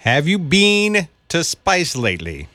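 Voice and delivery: slow, careful try at an Australian accent; attempted Australian accent. Shown as a demonstration. Co-host repeating after the teacher, tentative Australian accent. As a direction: copy an Australian accent slowly. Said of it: "repeat after me".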